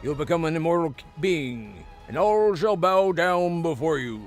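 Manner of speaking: proud, gloating undead sorcerer; arrogant lich voice. Acted. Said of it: "Arrogance rings in the Lich's voice".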